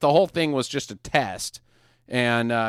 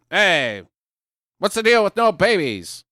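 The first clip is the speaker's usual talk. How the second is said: Gerard Butler voice; 3 semitones higher, 3 dB louder than usual. Retold or imitated. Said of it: "my Gerard Butler voice".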